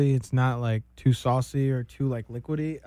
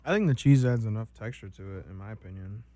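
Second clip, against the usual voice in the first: chewing while talking; 4 semitones lower than usual. Real, not acted. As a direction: mouth full of food. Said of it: "Sorry for the chewing sounds".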